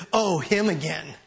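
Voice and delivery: mock weary, resigned acted voice; imitating a put-upon boss receiving a nuisance; reluctantly putting up with someone. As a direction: play grudging tolerance, with long pauses. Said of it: "not just putting up with us".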